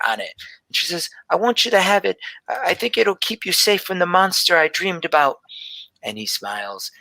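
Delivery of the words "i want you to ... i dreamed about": lightly voiced young girl, slightly higher; a hint of a shy seven-year-old telling her dream; little girl Gelby. Gelby gives her drawing.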